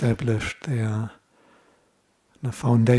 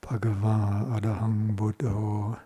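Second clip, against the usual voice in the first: mantra recitation. Shown as a demonstration. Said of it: "it makes a little loop".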